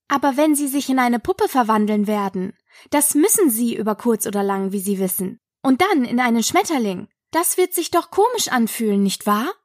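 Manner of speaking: quick, chattering Alice; lightly voiced, eager Alice; earnest Alice. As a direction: reason it out in a fast run. Voices Alice in narrated story.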